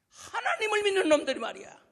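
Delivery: high, very loud bellowing challenge; Goliath daring any Israelite to face him; giant's roar. Acted. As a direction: bellow like a huge brute spoiling for a fight.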